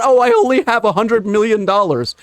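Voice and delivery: whiny mock billionaire, lightly done; a hint of a whiny rich man; mock whining. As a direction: imitate a spoiled rich man complaining, half-hearted. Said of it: "whining about and bitching and moaning".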